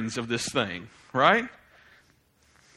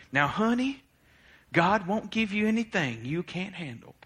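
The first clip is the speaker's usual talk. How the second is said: Southern way; 5 semitones higher than usual. Retold or imitated. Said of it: "this is the Southern way".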